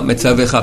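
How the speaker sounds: Metzavecha with a clear e before -cha; shva voiced. Shown as a demonstration. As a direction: sound the e in Metzavecha. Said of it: "pas Metzavcha". (Metzavecha avec le e)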